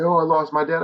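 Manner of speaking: hammed-up "poor me" quote; mock negative lament. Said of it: "negatively look at it and say".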